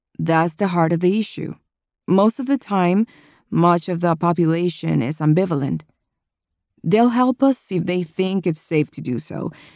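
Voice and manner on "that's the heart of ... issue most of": plain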